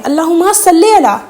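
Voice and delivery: slow اللہم صلی علی with صلی as sallē; correct recitation. Shown as a demonstration. Modelling the right reading for viewers, slow. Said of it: "یہ صلی علی ہے".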